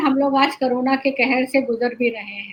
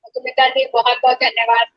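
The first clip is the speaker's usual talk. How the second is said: echo on the line. Real, not acted. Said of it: "आपकी आवाज में इको आ रहा है".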